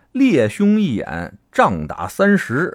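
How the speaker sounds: put-on slow, measured recitation of the old saying; a light imitation of 郭德纲 reciting it, slowed right down; 郭德纲 quote. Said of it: "郭德纲说话了". (缓慢地模仿郭德纲念出这句老话)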